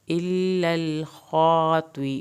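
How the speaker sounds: slow melodic tajweed recitation; measured Quranic chant, vowels stretched. Shown as a demonstration. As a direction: recite it slowly, drawing out every long vowel. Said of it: "خا کو پورا پڑھنا ہے".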